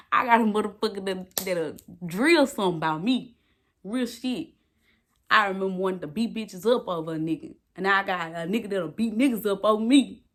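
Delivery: loud, gleeful boast; excited bragging. Real, not acted. To her viewers, loud and gleeful about her man. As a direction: boast with a grin.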